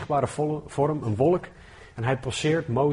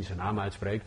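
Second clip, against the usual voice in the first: softer, lower puzzled echo, voicing a doubting listener; softer incredulous echo of the listener; puzzled question; 4 semitones lower, 6 dB quieter than usual. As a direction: ask it back quietly, half disbelieving. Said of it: "En nu denk je misschien".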